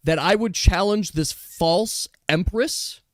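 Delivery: a lightly voiced noble rebel; defiant raccoon Dish. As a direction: defy the false empress to her face. Raccoon Dish defies the court.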